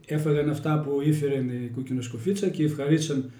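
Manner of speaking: Little Red Riding Hood told in broad Kozani Greek dialect; folksy village storyteller in Kozani dialect. Shown as a demonstration. Telling a fairy tale to the interviewer, in Kozani dialect. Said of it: "Στα κοζανίτικα".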